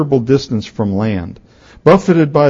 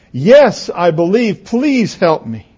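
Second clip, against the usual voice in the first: higher-pitched, acted plea; desperate pleading; 5 semitones higher, slower than usual. Boy on a cliff begging the voice, pleading. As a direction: plead like someone hanging on.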